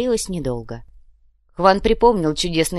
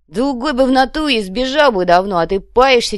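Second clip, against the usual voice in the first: excited exclaim; 6 semitones higher, 7 dB louder than usual. Acted. Savage moved, exclaims.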